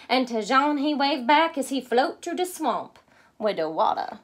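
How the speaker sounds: lightly voiced Cajun accent. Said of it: "my take on their accent".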